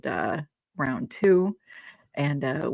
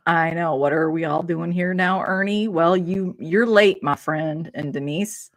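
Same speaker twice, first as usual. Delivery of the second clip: a light put-on Southern accent. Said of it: "Why'd you go into the Southern accent".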